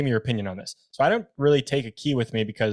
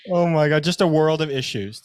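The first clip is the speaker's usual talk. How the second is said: exasperated disbelief; 5 semitones higher, 4 dB louder than usual. Real, not acted. Reacting to infuriating story.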